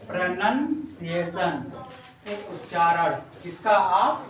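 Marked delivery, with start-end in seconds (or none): 0.1-3.1 slow, drawn-out teaching read; slow model word. Shown as a demonstration. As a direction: stretch each syllable for the class. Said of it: "pronunciation को क्या बोलते हैं?".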